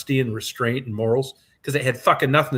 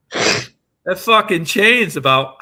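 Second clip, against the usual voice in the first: slow words broken by laughter; laughing; 5 semitones higher, 6 dB louder, much slower than usual. Real, not acted. To his podcast host about the door chain, laughing. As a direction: laugh through it, stretching the words out. Laughing while telling story.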